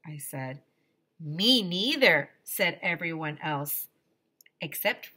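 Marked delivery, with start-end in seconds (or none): 1.2-2.3 louder, slow protest; all the kids refuse. Acted.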